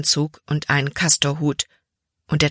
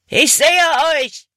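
much higher, loud shout; villain calling out; 11 semitones higher, 5 dB louder than usual. A narrator's reading. Slave catcher shouting at the fleeing children, loud call. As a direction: call across the gorge like a hunter spotting prey. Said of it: "rief Hutton".

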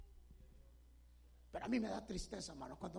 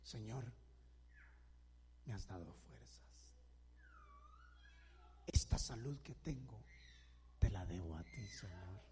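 broken prayer; 13 semitones lower, 5 dB quieter than usual. Pretend. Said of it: "Quebrántate delante de Dios y dile".

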